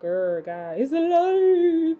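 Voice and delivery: hammed-up monster voice, drawn out; Frankenstein growl. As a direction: lumber through it like Frankenstein's monster.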